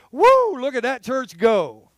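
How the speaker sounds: high, drawn-out admiring whoop; mock amazement. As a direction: marvel slowly like an impressed onlooker. Imagined onlookers marvel at his church.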